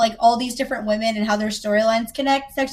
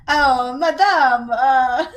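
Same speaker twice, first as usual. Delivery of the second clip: drawn-out, hammed-up French accent; halting fake French madame; bad French accent; 3 dB louder, much slower than usual. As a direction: attempt a French accent and falter. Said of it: "do a pretty good French accent".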